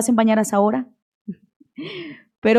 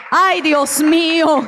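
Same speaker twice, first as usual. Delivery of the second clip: slow, awed sigh of praise; moved exclamation; 3 semitones higher, slower than usual. Real, not acted. Preacher overcome remembering her father, slow and awed. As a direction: let it out slowly, overwhelmed.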